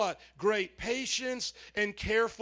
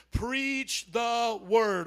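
slow, weighty preach the word; much slower than usual. Shown as a demonstration. Pastor leading the church in a slow chant. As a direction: lean on each word, slow. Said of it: "Say these three words together".

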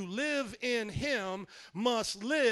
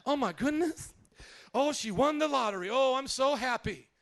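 lightly voiced delighted mom, louder; a hint of a gushing mother; 3 semitones higher, 4 dB louder than usual. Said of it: "This is how my mom would talk".

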